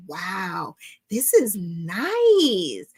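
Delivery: slow, impressed reaction, drawing out NICE; retold amazement; impressed wow. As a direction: savor it, stretching the words in mild awe. Acting out first reaction to hook.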